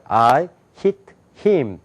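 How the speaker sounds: "I hit him" in separate words, Korean reading style; Korean-style English. Shown as a demonstration. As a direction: read "I hit him" evenly, sounded at the front of the mouth. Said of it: "이걸 영어라고 읽었잖아요".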